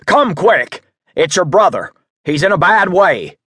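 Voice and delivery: high, loud breathless warning; urgent alarm. A narrator's reading. Old man bursting into a hotel with bad news, alarmed. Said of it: "cried as he rushed into".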